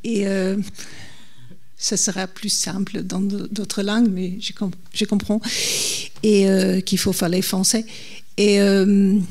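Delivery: non-native speaker's French; careful French with a foreign accent. Real, not acted. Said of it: "pardon si mon français, ce n'est pas comme j'aurais voulu".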